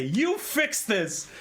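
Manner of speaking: slow Skaven demand. Retold or imitated. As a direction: stretch each word like a pushy rat-man. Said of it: "And they say".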